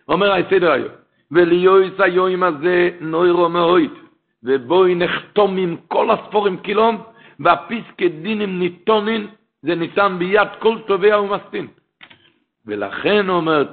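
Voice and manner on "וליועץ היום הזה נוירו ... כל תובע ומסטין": measured, slightly raised recitation; reciting a sacred text. Acted. Preacher quotes Seder HaYom to listeners, measured recitation.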